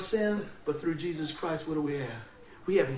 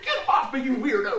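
screaming woman; 4 semitones higher, 4 dB louder than usual. Retold or imitated. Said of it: "she was like".

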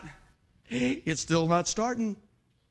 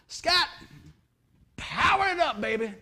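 mock shout; 6 semitones higher, slower than usual. Preacher retelling calling to his buddy, high mock shout. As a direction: call out to power it up. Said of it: "I scream out".

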